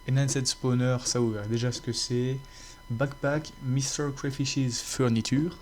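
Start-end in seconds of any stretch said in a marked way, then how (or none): 2.9-5.6 slow, mock English accent on the mod name. Youtuber listing his mods to viewers, in a jokey English accent. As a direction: put on a proud English accent, a bit hammed-up. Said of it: "avec mon magnifique accent anglais".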